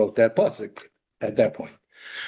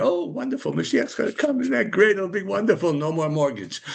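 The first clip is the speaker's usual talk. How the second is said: higher, gushing imitation of the naive view; mock naive delight; 5 semitones higher than usual. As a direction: gush like someone who expects easy paradise. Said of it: "everybody has this idea".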